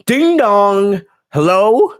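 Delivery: high sing-song ding dong hello; imitating Bayley. Host imitating Bayley's catchphrase, high sing-song. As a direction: chirp it like a doorbell greeting. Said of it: "I love that song".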